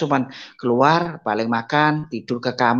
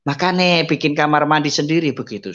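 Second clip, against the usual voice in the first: gloating taunt; 5 semitones higher than usual. Retold or imitated. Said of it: "orangnya di depan pintu".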